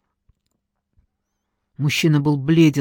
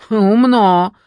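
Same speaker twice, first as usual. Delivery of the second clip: усмехнулась; 5 semitones higher, 6 dB louder than usual. A narrator's reading. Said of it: "усмехнулась женщина".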